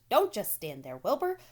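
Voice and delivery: loud, high, urgent goose; a bossy goose barking orders; goose crying out. A narrator's reading. Goose shouting orders to Wilbur, loud and high. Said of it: "cried the goose".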